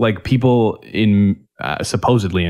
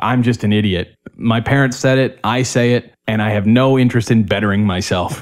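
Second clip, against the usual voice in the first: ordinary talk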